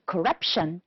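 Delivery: corruption with RUP stressed; stress on second syllable. Shown as a demonstration. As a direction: lean on the middle of corruption. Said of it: "it's the second one".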